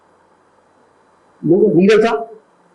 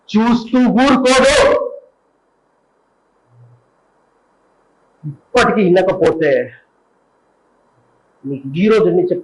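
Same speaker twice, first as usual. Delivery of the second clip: hero's stern warning. Acted. Hero warns the drug dealer, slow and stern. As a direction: lay down the law.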